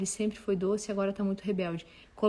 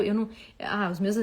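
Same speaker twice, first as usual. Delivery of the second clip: ordinary delivery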